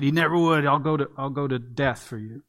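hammed-up self-righteous promise; self-righteous insistence. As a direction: Peter insisting he would never fall away. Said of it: "so self-righteously and emphatically said".

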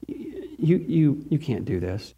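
low, soft, slow devilish murmur; whispered taunt. Retold or imitated. Pastor voicing Satan's whisper to believers, hushed and slow. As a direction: slip the words in like a tempter's whisper. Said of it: "these little whispers into our head".

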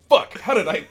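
high, loud, incredulous outburst; retold disbelief. Realizing he missed his friend's German voice, incredulous. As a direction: blurt it out, floored by the discovery. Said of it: "I'm like".

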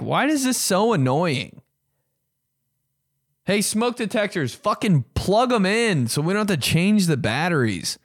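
high-pitched exasperated complaint; pissed-off rant. Real, not acted. Tenant scolding smoke detectors, exasperated high-pitched rant. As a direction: raise the pitch in annoyed protest. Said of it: "smoke detectors piss me off".

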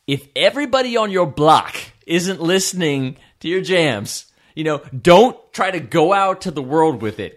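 loud, high-pitched imitation of a Black American accent; attempted Black American accent. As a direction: quote a rapper in a put-on Black American accent, loudly. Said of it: "trying to sound black".

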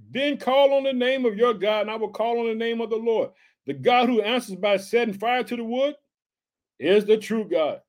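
measured, lifted proclamation; scripture reading. A narrator's reading. Preacher reading Elijah's challenge to the people, proclaimed. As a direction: declaim the verse to the church. Reads scripture aloud to congregation.

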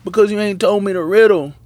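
mock whining wife. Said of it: "she's crying to Samson".

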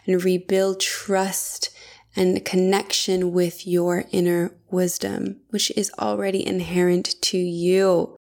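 measured, scripted promo delivery; ad read. Acted. Host promoting the Embodiment Toolkit to listeners, ad read. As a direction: read it as a polished sponsor spot.

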